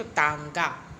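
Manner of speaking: तांगा drawn out slowly with a nasal आं; slow nasal demo. Shown as a demonstration. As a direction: stretch तांगा, humming the न. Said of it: "न का स्वर आएगा बीच में". (तांगा धीरे से, बीच में न का स्वर)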